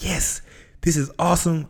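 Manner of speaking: high, bright mock delight; self-talk turning annoyance into mock glee; forced cheer. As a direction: act thrilled about the mess. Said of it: "I was like".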